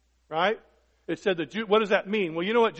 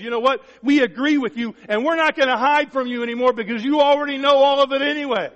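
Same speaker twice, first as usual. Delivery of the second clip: earnest confession; 7 semitones higher, 7 dB louder than usual. Acted. Voicing a believer confessing to God.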